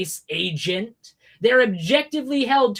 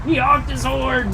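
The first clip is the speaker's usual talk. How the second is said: "He honked his horn!" in hammed-up indignation; mock outrage; 2 semitones higher, 3 dB louder than usual. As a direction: act scandalized at "honked".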